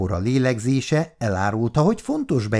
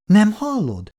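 high raised rebuke; sharp call; 10 semitones higher, 3 dB louder than usual. Acted. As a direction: snap the question at him. Anya rászól a férjére. (éles, felemelt hangú rászólás)

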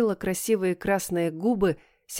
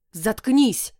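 завопила; 3 semitones higher, 3 dB louder than usual. Acted. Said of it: "завопила я".

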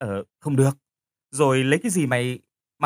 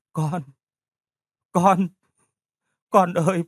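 distraught mother calling; 5 semitones higher, slower than usual. Acted. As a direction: call out to your child, desperate. Mother calling daughter on phone. (người mẹ gọi con hốt hoảng)

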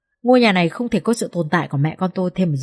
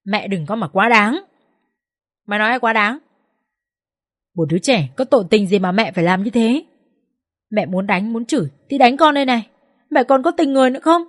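rising angry outburst; 3 semitones higher than usual. Acted. Wife confronting her cruel mother-in-law, building into an angry cry. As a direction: let the anger climb line by line. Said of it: "Tôi nhìn mẹ chồng và gào lên".

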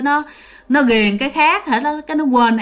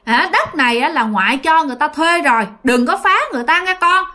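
mildly scolding grandmother, pitched up; lightly acted telling-off, higher on the warnings; 5 semitones higher than usual. Grandmother warns her dead grandson to stop bothering tenants, mildly scolding. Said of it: "bà ngoại còn la thêm".

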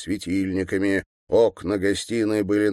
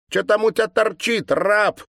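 put-on high, louder girlish sneer; mocking girl; 14 semitones higher, 4 dB louder than usual. A narrator's reading. Girl poking the governor with a stick, high mocking sneer. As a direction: taunt him like a spiteful schoolgirl.

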